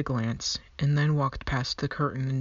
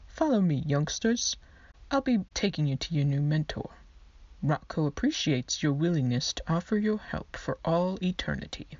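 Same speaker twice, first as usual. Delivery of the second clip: prim skeleton clerk. Acted. Skeleton clerk Marvin speaks.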